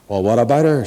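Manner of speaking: mildly gentle reply; understated, gentle storybook hero. Acted. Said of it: "said our hero gently".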